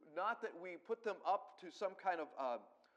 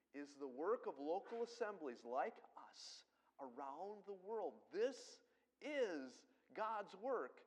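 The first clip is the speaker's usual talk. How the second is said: slow, swelling preacher's build; fervent preaching. Acted. Pastor to his congregation, fervent slow preaching. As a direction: preach it out, drawing the words long.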